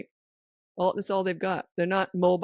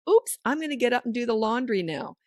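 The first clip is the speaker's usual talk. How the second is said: higher, airy "oops" then breezy exit line; casual announcement; 5 semitones higher than usual. Shown as a demonstration. Parent slipping away from playing child, casual. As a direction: toss it out as if just remembered.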